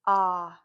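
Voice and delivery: "ah" as a single held short vowel; isolated vowel sound. Shown as a demonstration. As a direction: sound out "ah" on its own. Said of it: "stop and blend at the vowel".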